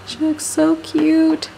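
drawn-out, doting singsong; cooing. Real, not acted. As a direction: coo adoringly over your little daughter. Gushing over her little daughter.

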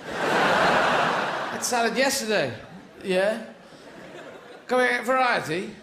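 slow, drawn-out whine with a laugh in it; whiny complaint. Acted. Caveman child complains about tea.

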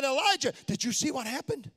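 mild incredulous wonder, rising; voicing God gently amazed at Ahab; surprised God. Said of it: "a note of surprise in the voice of God".

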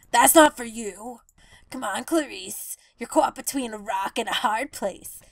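low, soft flirting seagull; lightly voiced seagull courting Clarice; smooth lesbian seagull. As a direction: purr like a seagull wooing a mate. Seagull character voice held.

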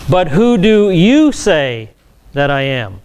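slowed, weighty stress on "you"; emphatic question. Shown as a demonstration. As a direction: put the question pointedly, drawing out "you". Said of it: "Greek here is very, very emphatic".

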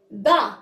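با as "ba", opened on the "a"; fatha syllable. Shown as a demonstration. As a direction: model با as one clear syllable "ba". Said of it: "غنقول لها".

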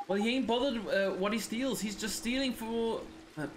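lightly put-on Welsh accent, stumbling; a half-managed Welsh lilt; Drippy's Welsh accent. Drippy explaining the thief to Oliver, in a rough Welsh accent. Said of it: "trying to do his accent".

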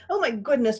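high, mildly sobbing dismay; sob. A narrator's reading. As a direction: exclaim with a touch of a sob. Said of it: "Pearl sobbed".

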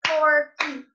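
FORKY in two loud beats, FOR-KY; Forky clapped out, falling at the end; split in two parts. Shown as a demonstration. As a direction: break Forky into two separate syllables. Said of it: "he has two parts to the word".

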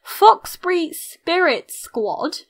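slow, word-by-word "Foxbury Spirit Squad"; saying it slowly. Real, not acted. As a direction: spell out the name slowly and carefully. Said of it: "I have to say it slowly".

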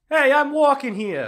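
high, loud, slow street yell; New York yell. Acted. New Yorker shouting at a man on the crosswalk. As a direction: bellow it at the other walker.

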